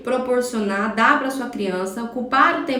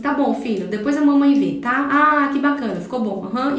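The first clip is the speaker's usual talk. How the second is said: quick, absent praise, mind elsewhere; mother fobbing off her child, mildly dismissive; dismissive mom; 3 dB louder than usual. Retold or imitated. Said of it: "aí você olha e fala assim".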